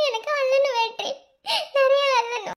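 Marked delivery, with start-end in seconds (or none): 1.8-2.6 crying. Acted. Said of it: "எதுக்கு அழுதுகிருக்க?".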